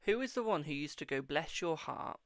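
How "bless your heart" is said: slow, drawn-out Southern "Bless your heart"; southern accent. Retold or imitated. Imitating a relative's Southern "Bless your heart". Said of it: "but in the most, like, southern way".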